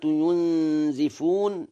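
"ينزفون" said yunzifun, with i; kasra on zay. Shown as a demonstration. Lecturer names the other reading for listeners, "ينزفون" as yunzifun. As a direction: say "ينزفون" with i after the z. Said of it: "بكسر الزاي".

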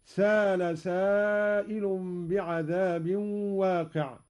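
سال without a glottal stop, slowly; no hamza. Shown as a demonstration. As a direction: say سأل as «سال». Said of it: "بدون همز هكذا". (سال بدون همز)

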